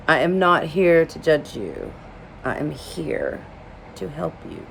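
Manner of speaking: measured, pausing reassurance, softening at the end; sincere reassurance. Retold or imitated. Plumber looking the crying woman in the eye, sincere reassurance. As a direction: quote him gently, phrase by phrase. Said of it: "he looks me in the eye".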